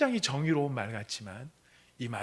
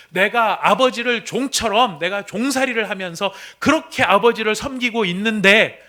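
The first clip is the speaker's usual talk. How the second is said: angry son; 7 semitones higher, 10 dB louder than usual. Acted. Son's acted outburst at father.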